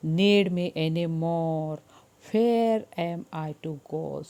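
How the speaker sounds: very slow, mildly sad cat; lightly voiced old cat. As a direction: drag the words out as the tired cat. (बूढ़ी बिल्ली की बहुत धीमी, हल्की उदासी)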